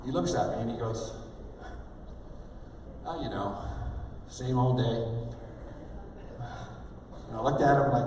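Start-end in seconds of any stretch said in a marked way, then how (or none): 3.1-5.0 mock unenthused small talk; unenthused reply. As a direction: imitate someone who can't be bothered. Retold indifferent audience member's reply.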